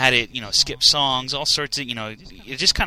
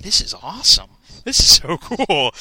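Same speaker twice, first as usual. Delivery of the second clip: thrilled, louder and higher, laughing through cool; excited crowd; 6 semitones higher, 6 dB louder than usual. Retold or imitated. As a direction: gush like an amazed fan. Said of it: "everybody's like".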